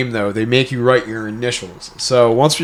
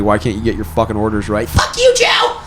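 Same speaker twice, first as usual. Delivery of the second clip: mock customer; 5 semitones lower than usual. Mocking a customer yelling.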